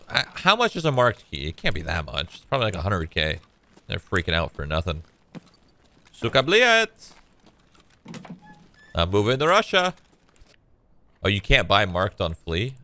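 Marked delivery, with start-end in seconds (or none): 6.1-7.1 slow, drawn-out mock Russian swear; hammed-up Russian curse, stretched out slow. Gamer jokes to stream chat about moving to Russia, mock Russian accent.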